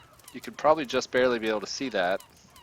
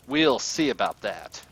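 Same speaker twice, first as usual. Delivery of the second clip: threatening villain; 5 dB louder than usual. Acted. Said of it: "Sibert gets a black look".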